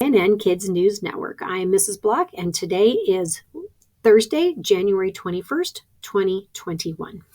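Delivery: put-on lightly presented kids' news intro, date set out clearly; news announcer. Shown as a demonstration. Teacher shows staff how to open the announcements, news announcer. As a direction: demo of a school news opening. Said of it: "you make the announcement".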